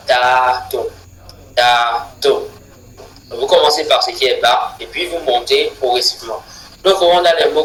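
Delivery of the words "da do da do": da do chanted, rising to the second beat; rhythm demo. Shown as a demonstration. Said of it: "on parle du rythme". (rythme da do scandé)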